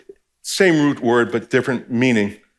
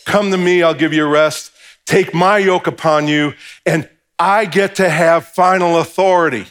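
mock arrogant; 5 semitones higher, 4 dB louder than usual. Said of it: "preposterous, arrogant thing for him to go".

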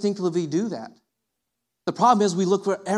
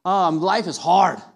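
wallowing self-pity; 3 semitones lower than usual. Pretend. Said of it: "and feel like".

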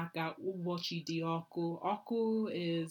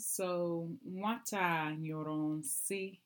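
sounding it out; much slower than usual. Shown as a demonstration. Learner sounding out a sentence.

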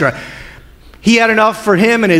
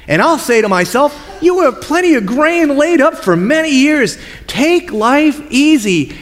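smug rich man; 5 semitones higher than usual. Acted. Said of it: "Then he said to himself".

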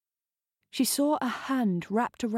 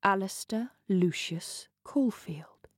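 slow, stunned whisper of his full name; shocked whisper while hiding in the dark. Acted. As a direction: breathe the name in disbelief. Jess names the hidden lover.

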